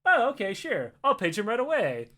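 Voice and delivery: polite office lady. Retold or imitated. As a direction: play the helpful lady at the desk. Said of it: "She goes".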